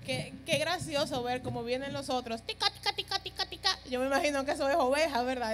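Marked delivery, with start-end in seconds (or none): 2.4-3.8 shepherd's call to sheep. Retold or imitated. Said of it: "en su idioma".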